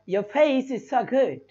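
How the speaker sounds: Your face is so good very slow, face drawn out; slow English-accent demo; English accent imitation. Shown as a demonstration. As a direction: say it slowly like an Englishman. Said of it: "अंग्रेज कैसे बोलेगा".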